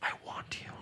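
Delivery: breathy unvoiced whisper. Girlfriend whispering to him while making out. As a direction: whisper it close and intimate. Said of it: "she whispers".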